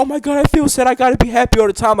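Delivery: high, loud, overwrought complaint; mock panic. Speaker mimics someone attached to happiness, in mock panic. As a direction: wail it like a hammed-up meltdown.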